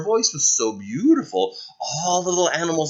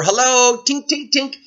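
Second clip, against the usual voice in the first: Snow White knocking; 10 semitones higher, 3 dB louder than usual. Acted. Knocking at the little door.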